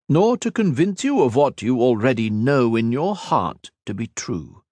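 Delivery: a lightly voiced immortal villain, scornful; villain Shinzan mocking Ethan's sacrifice, lightly voiced and scornful; cold villain. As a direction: sneer down at a mortal, unhurried. Shinzan dismisses the debate.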